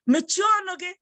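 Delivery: high-pitched irritated order; annoyed, rude. Shown as a demonstration. Teacher showing what to say to someone so annoying, annoyed. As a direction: tell off someone who is getting on your nerves. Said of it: "if the person is so annoying".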